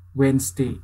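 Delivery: "Wednesday" with a buzzing Z for the S; "wenzday", D silent, Z voiced; American Z pronunciation. Shown as a demonstration. Teacher demonstrates American "Wednesday" with a Z. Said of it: "Wednesday pakai Z".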